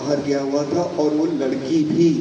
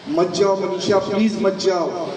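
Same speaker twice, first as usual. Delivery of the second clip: urgent pleading; 4 semitones higher than usual. Acted. Husband she hopes will stop her leaving, pleading. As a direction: beg her urgently to stay.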